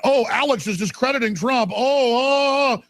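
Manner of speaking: high, sneering imitation of the media; hammed-up mock gasps of the arrogant press; mocking whine. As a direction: scoff at them with a whiny put-on voice.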